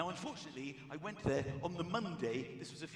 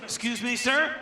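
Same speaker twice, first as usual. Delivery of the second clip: loud, rising, puzzled question; puzzled official; 6 semitones higher, 11 dB louder, slower than usual. Retold or imitated. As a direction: ask it like a baffled clerk. Official asks, louder and higher.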